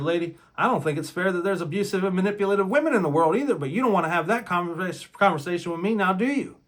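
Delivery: fast, pointed, rising challenge; telling off the meddling wife, cutting; cutting retort. Retold or imitated. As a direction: put her in her place. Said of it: "I looked at her dead in the face and I said".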